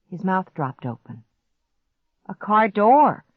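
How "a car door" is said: higher, louder exclamation; excited realization. A narrator's reading. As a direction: burst out with sudden hope. Child hears possible rescue arriving.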